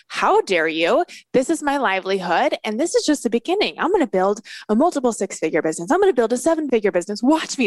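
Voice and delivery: fast, fired-up comeback; indignant mock fury, quick and defiant; defiant attack. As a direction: rattle it off like a challenge. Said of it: "my immediate reaction was attack".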